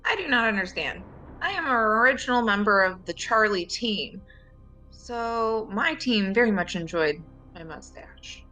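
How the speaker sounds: high voice, proudly defending the mustache; in-character team member. Acted. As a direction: answer in a high put-on voice, fully in earnest. Player answers in character about mustache.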